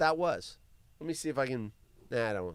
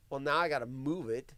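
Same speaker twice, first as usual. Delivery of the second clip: normal talking voice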